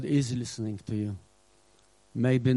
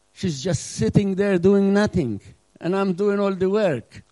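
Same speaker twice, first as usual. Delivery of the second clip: angry Martha; 4 semitones higher than usual. Retold or imitated. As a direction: voice Martha's fury building to a shout. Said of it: "But no, she was angry".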